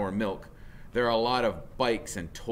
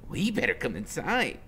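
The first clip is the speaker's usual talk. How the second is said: higher, fast insistent order; bossy woman; 10 semitones higher, 4 dB louder than usual. Acted. Woman ordering kids indoors, higher and fast. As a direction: push them in, no arguing. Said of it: "and she says".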